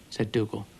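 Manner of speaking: ordinary delivery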